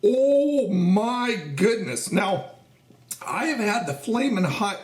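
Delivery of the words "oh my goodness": slow, pained from the heat; mouth burning. Real, not acted. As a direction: speak through a burning mouth. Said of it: "my mouth was on fire".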